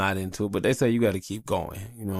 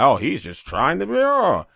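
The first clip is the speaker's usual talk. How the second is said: mocking whiny voice; 9 semitones higher, 7 dB louder than usual. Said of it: "I come off being the grumpy guy".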